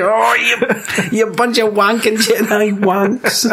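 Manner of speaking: high, hammed-up outrage; angry. Angry big-headed guy insulting the Jedi, mock angry. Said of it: "he's just been so angry".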